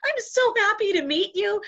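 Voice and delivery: high-pitched gushing thanks; effusive gratitude. Retold or imitated. Woman disarming the devil with thanks, high and gushing. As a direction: overflow with delight and thanks.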